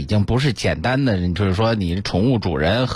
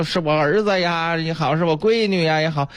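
higher-pitched parody of a devoted owner; mock doting; 6 semitones higher than usual. Owners claiming the pet as their own child, mock doting. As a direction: lightly imitate gushing over a pet. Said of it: "这叫着".

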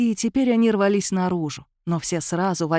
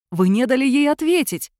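loud, higher outraged cry; shout; 6 semitones higher, 4 dB louder than usual. A narrator's reading. Georgy screams at the master for ending the séance, loud. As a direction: hurl the question at him in fury. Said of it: "закричал Георгий Александрович".

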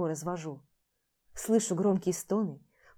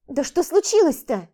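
higher, louder alarmed question; 7 semitones higher, 8 dB louder than usual. Acted. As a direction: demand what happened. Vlada sees the smashed table. (встревоженно, громко и высоко)

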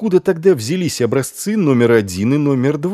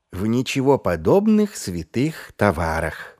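eager frightened monk. Acted. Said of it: "с готовностью откликнулся испуганный монах".

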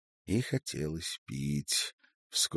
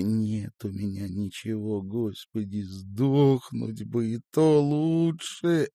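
slow tearful lament, rising higher and louder; despairing; 5 semitones higher, 6 dB louder, slower than usual. A narrator's reading. Crying woman denying any misfortune, despairing. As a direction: build from weary complaint to loud despair.

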